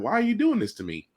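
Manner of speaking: laughing plea. Real, not acted. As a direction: beg through laughter. Mock torment over choices.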